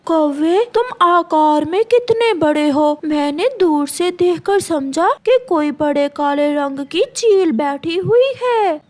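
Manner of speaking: sweet, coaxing bird voice; butter up the crow slyly; sly myna flattering. Acted. Myna coaxing the crow out of his bread, sweetly sly.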